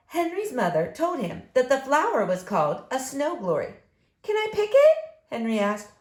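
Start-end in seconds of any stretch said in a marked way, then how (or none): 4.2-5.0 high, louder eager question; eager asking. Acted. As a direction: plead brightly to mom. Child asking mother.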